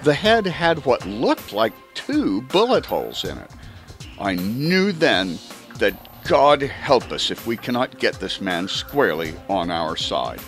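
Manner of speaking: ordinary delivery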